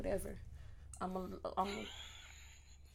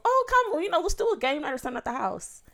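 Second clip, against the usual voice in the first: fake casual invite; 4 semitones higher than usual. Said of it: "casual little".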